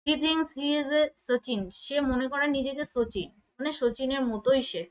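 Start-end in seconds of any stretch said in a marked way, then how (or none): 0.1-1.6 slow example read. Shown as a demonstration. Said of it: "দেখো কি বলছে".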